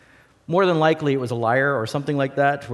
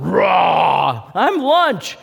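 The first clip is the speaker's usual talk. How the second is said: squeaky, much higher, loud panic; panicked sheep; 6 semitones higher, 7 dB louder, much slower than usual. Pretend. The sheep sees the bear coming and panics, squealing. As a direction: shriek in comic terror.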